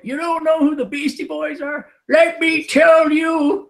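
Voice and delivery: put-on old man voice. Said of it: "You sound like the old guys".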